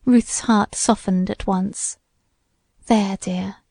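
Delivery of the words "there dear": soft, soothing, gently lowered voice; consoling. A narrator's reading. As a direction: comfort a tearful younger sister. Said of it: "in consoling tones".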